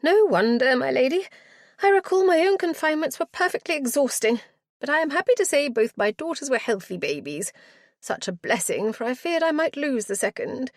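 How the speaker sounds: put-on high, fluttering, flustered old matron. Matron greeting her lady visitor, high and flustered. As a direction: gush over the guest in a high flustered voice. Matron chattering about confinements.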